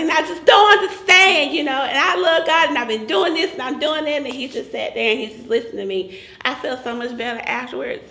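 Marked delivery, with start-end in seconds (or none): 0.0-4.2 venting. Retold or imitated. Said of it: "And, and I was like".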